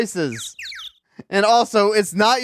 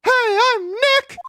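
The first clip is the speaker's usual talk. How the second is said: higher, slow and louder greeting; louder, slower; slower than usual. Shown as a demonstration. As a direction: say it up at the mic, slowly. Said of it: "Maybe I'm not saying it loud enough".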